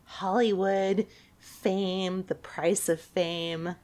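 slow, dramatic trailer narrator; movie trailer voice. Pretend. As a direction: intone it like a film trailer. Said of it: "You should, like, do movie trailers".

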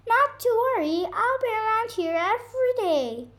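high, fast, cheery bird chatter; chirping bird. Acted. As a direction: rattle it off brightly as the bird. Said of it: "chirped the bird".

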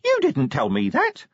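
very high, small voice in despair; despairing imp. A narrator's reading. Imp protesting to Vimes, head in hands, despairing. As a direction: wail it in a tiny squeak. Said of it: "The imp went from despair".

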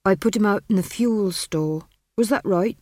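a lightly voiced country smith, unsure of himself; smith's voice. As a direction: answer the witch a little anxiously. Smith answers the witch anxiously.

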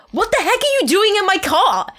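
high, loud startled squeak; panicked squeak. Acted. Girl finding Edward in her car, panicked squeak. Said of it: "I squeaked in panic".

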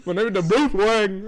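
imitating an Asian accent, grinning. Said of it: "he speaks in an Asian accent".

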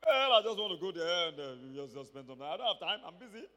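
arrogant. Retold or imitated. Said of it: "in his very arrogant self".

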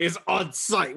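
mock threat from a star quarterback; a touch of trash talk, a bit high; Aaron Rodgers. Quarterback threatening a rival, lightly voiced tough talk. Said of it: "Aaron Rodgers heard that and said".

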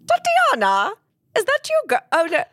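Jen's voice. Retold or imitated. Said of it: "down and goes".

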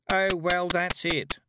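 high, scornful huff; exasperated. A narrator's reading. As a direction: give up on her with disdain. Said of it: "rolling her eyes".

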